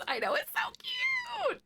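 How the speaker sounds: slow, gushing whisper. Real, not acted. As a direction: breathe it out like it's too cute. Gushing over Bulbasaur pop socket.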